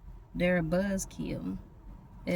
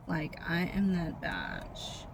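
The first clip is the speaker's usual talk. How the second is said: mock diva attitude; 5 dB quieter, slower than usual. Mocking a self-important woman.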